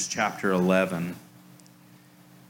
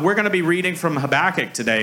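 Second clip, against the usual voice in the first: fast, brisk pastor announcement; quick mock pastor read; pastor announcing; 3 semitones higher, faster than usual. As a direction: rattle it off from the pulpit. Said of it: "your pastor starts talking about".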